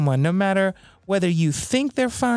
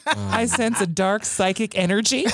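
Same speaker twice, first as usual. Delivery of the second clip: fortune teller. Pretend. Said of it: "Marianne Williamson".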